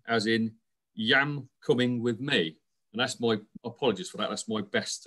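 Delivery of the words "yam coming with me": a light, slightly slowed Black Country impression; Black Country accent. Outgoing chair's successor jokingly imitating Black Country speech, lightly done accent. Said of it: "my best go at that accent".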